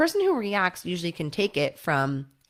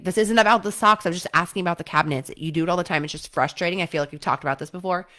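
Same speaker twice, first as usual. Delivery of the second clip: exasperated complaint, louder start; frustrated partner; 3 dB louder, faster than usual. Retold or imitated. Partner escalating the cabinet argument, frustrated. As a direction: vent the frustration. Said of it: "the cycle of defensiveness continues".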